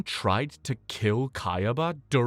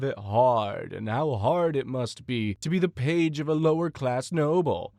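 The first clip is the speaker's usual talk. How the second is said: lightly mocking fake sympathy; sarcastic. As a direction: put on a touch of sarcastic pity, like sneering haters. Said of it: "Sarcastically, of course".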